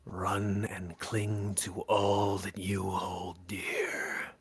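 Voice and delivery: very slow, menacing game-master whisper; ASMR whisper. Pretend. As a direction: whisper it slowly, drawing out each word. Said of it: "listening to A S M R".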